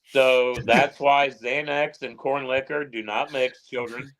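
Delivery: slow, preachy moral of the story; mock lecture. Host closing the drunk story with a mock lesson, slow and preachy. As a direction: wag a finger at the kids, slowly.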